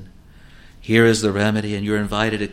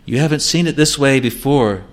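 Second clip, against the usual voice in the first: devil's temptation. Acted. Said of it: "the devil will tempt you".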